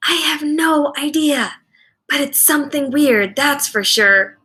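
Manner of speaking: whispered reply. A narrator's reading. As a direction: answer back in a lightly voiced hush. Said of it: "Missus Escobar whispered back".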